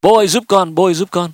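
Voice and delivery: mild mock yell; imitated child's cry. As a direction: call out like a kid in trouble, lightly acted. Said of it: "Nó la lên".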